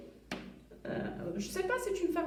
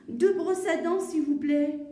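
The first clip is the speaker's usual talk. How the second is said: lightly acted customer, a bit louder; mother to pharmacist; 3 semitones higher, 5 dB louder than usual. Mother ordering two toothbrushes, lightly acted and projected. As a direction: project a polite request for learners. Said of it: "La maman à la pharmacienne".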